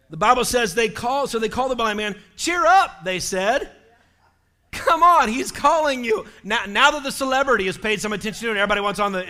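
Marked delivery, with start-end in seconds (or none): 2.4-3.0 higher, louder encouraging call; cheery urging. Acted. Crowd cheering on the blind man, cheery urging. 4.7-6.3 higher, louder start, encouraging call; eager urging. Acted. Crowd telling blind man Jesus calls, eager urging.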